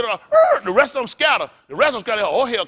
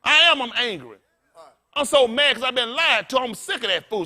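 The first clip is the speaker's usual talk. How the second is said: louder, fired-up preacher; angry; 5 semitones higher, 4 dB louder than usual. Real, not acted. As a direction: let the anger rise, half-laughing. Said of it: "I'm an angry preacher".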